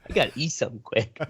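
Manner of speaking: soft flat deadpan echo; deadpan repeat. Retold or imitated. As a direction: mutter it back deadpan. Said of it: "repeats line 79 flatly".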